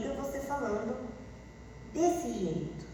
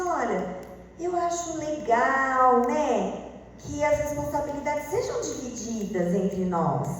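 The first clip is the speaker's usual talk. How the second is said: casual friendly; slower than usual. Shown as a demonstration. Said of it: "Mas você".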